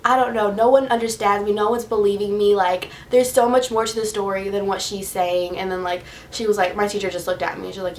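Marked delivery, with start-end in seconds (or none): 0.0-5.6 mildly exasperated protest; re-enacted frustration, not shouted; retold mad. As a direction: vent as a kid nobody believes. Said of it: "mad at this point".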